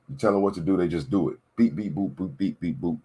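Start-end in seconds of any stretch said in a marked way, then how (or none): 1.5-3.0 imitated robot beeping; quick, mechanical beep-boop noises; mock robot beeps. Imitating robots taking orders.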